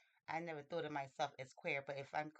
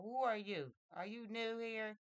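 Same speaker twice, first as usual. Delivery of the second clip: acted curious questions, pitched up; curious questioning; 6 semitones higher, 5 dB louder than usual. Gardener meets an unfamiliar child in the grounds, curious questioning. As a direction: quiz the newcomer in a raised voice.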